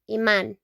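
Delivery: "Imán" as ee-MAHN; Spanish pronunciation. Shown as a demonstration. Teacher repeating after explaining the accent, "Imán" as ee-MAHN. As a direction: say "Imán" with stress on the á. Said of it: "with an accent in the A".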